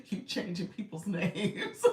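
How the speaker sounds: laughing. Real, not acted. Laughing at being teased.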